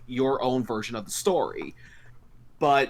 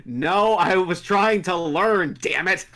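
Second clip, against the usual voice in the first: higher, slow, drawn-out protest; mock indignant protest; 6 semitones higher, 4 dB louder, slower than usual. Host rebutting teasing about using the panel, mock indignant. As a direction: playfully protest the accusation, higher and slower.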